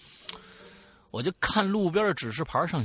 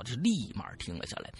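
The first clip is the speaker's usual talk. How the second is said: ordinary talk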